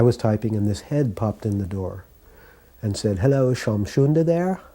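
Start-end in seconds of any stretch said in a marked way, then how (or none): 3.2-4.6 put-on higher, casual English accent; light mock English accent on a query. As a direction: imitate an English visitor asking at the door. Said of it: "in an English accent".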